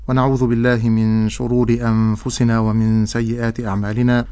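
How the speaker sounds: level, even-toned formula of praise; formal opening invocation. Acted. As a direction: recite the opening praise on a steady tone. Recites the opening sermon formula. (خطبة افتتاحية بنبرة رتيبة)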